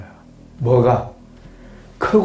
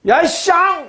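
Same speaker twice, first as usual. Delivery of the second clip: mock curse; 12 semitones higher, 4 dB louder, much slower than usual. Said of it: "이러지 않겠습니까?".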